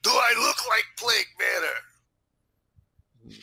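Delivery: high, slow, emphatic retort; indignant Russian character. Pretend. Accused Russian answering the sergeant, indignant.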